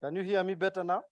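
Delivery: speaking too softly into the mic; barely audible. Real, not acted. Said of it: "Not better".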